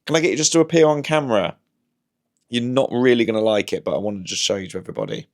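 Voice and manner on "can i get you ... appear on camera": higher, louder coaxing the cat; the pet voice. Shown as a demonstration. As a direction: coax the cat up high. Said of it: "You have to do the voice".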